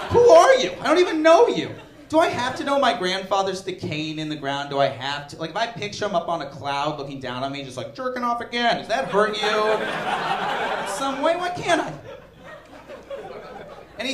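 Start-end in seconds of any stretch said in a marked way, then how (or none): 0.1-11.9 mock indignant woman. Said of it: "She's like".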